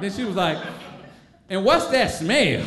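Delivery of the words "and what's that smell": slow, laughing disgust. Retold or imitated. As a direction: drag out the question, grossed out. Tracy noticing marker smell.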